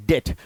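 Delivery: डेट said "det" with no B; silent B. Shown as a demonstration. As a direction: drop the B completely in डेट, "det". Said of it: "silent होता है".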